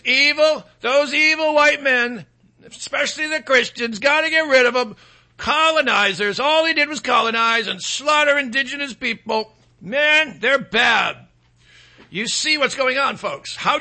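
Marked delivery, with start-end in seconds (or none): 0.0-11.2 mock outrage. Sarcastic mimicry of accusers.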